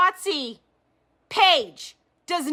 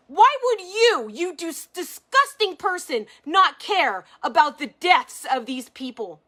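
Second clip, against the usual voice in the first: angry. Real, not acted. Confronting Sherry Rank over the deaths, furious. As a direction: hurl the question at her in real outrage. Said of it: "now I'm fired fucking up".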